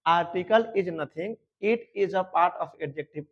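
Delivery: slow, spaced dictation of the rule; teacher repeating the rule very slowly; slow repeat for students. Shown as a demonstration. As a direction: say it slowly so they can copy it down. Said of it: "फिर से सुन लो".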